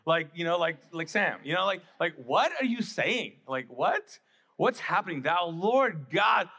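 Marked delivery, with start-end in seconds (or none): 2.2-6.5 hammed-up British accent, loud and pompous; mock British prayer voice. Churchgoers suddenly praying in British, mock British accent. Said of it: "they're, like, British".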